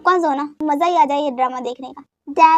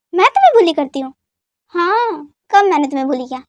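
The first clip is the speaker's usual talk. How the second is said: indignant retort; 4 dB louder than usual. Acted. Wife indignant at husband's accusation.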